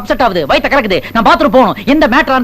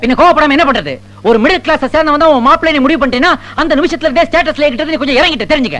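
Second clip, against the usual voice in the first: mildly raised, indignant rant; angry; 3 semitones higher than usual. Acted. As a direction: vent wounded pride at the host. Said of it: "ஏன் sir இப்படி கோவப்படுறீங்க?". (கோபமான பேச்சு)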